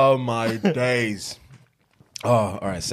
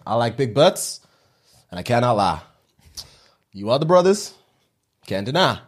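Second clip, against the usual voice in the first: put-on Southern American accent. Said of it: "Southern American".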